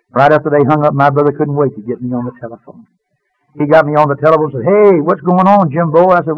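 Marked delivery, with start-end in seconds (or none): 4.7-6.1 higher, drawn-out hail; lively phone greeting. Retold or imitated. Brother ringing Jim up, lively drawn-out greeting. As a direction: greet your brother heartily, stretching it out.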